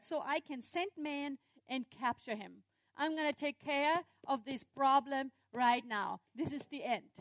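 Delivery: mildly riled, determined threat; beefed king. Acted. King vowing to capture the prophet, mildly angry. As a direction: vow it like an annoyed ruler. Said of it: "being beefed, he said".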